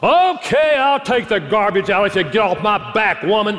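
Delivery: high, unkind, begrudging grumble. Acting out a husband who agrees to take the garbage out: mock grudging, unkind husband. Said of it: "we don't do them in a kind way".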